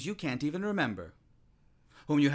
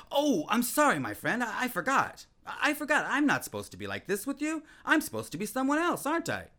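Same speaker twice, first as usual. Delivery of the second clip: mock apology; 9 semitones higher than usual. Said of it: "you want to shout out".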